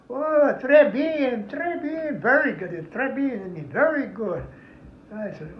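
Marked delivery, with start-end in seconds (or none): 0.1-4.4 higher, slow très bien; lightly voiced Frenchman delighted. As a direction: savour the praise. Frenchman praising coffee.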